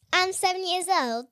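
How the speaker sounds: put-on British accent. Kid showing hosts a famous British accent, put-on British. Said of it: "like a British accent".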